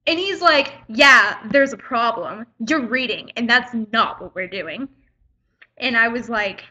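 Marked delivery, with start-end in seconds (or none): 0.9-3.3 retold curt attitude, loud opening "yeah"; teacher with attitude. Teacher telling off a student for reading, with attitude. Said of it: "he had so much attitude". 3.4-4.9 retold scolding with some attitude; teacher with attitude. Teacher telling a reading student off, with attitude. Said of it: "he had so much attitude".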